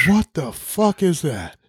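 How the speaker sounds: slow, drawn-out mock bafflement; baffled reaction. Seeing Evander's weird backpack, slow mock disbelief. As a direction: stretch it out in disbelief. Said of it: "and I was like".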